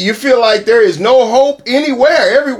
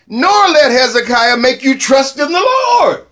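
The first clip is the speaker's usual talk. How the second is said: loud herald's proclamation. Acted. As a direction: cry it out to the whole wall. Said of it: "hollering in a loud voice".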